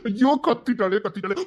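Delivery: a panicked wail at being caught; panicked cry. Acted. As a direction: caught man crying out in alarm. Panics as she screams.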